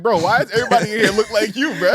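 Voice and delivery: high, loud, fast and laughing; baffled exclamation. Retold or imitated. Asking a friend about his lookalike relatives, comically baffled.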